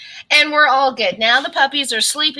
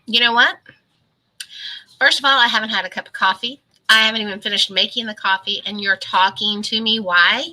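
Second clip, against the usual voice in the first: pissy grumble; faster than usual. Retold or imitated. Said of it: "I just get really pissy".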